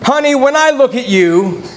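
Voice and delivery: drawn-out, mock-romantic endearment; adoring spouse. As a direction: play a spouse paying a loving compliment. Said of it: "have your spouse say to you".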